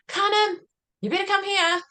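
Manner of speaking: lightly voiced young son calling for his brother; child calling his brother. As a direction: call out like a worried little boy. Son calls his brother over.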